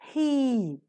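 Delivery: "he" with full h and long ee; strong form. Shown as a demonstration. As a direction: say a drawn-out, stressed "he". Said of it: "The strong form of which is pronounced".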